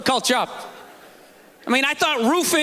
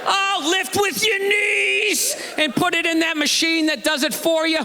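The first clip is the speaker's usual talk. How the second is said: mock sarcastic; 4 semitones higher than usual. Mocking advice to mothers.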